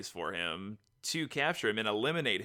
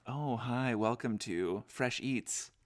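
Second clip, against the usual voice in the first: calm normal voice; 4 dB quieter, slower than usual. Shown as a demonstration. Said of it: "a normal voice. It's kinda calm".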